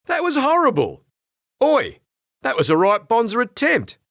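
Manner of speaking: put-on high, loud laughing Australian kid; giggling Aussie jeer; laughing Australian teasing. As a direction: tease him through laughter in broad Australian. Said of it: "collapses against the door frame in laughter".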